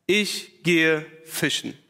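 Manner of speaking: langsam und niedergeschlagen, mit Pause danach; resigned. Acted. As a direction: sag es müde und resigniert, leicht gedehnt. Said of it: "Ich bin geknickt". (langsam, resigniert, wie geknickt)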